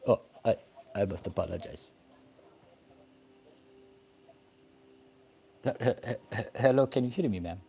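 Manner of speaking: faint, breaking phone line; barely audible. Real, not acted. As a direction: voice fading on a bad connection. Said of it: "can barely hear you".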